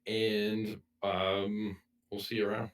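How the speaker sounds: hoarse, sick raspy voice; talking through a raspy sore throat. Real, not acted. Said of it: "ignore my raspy voice".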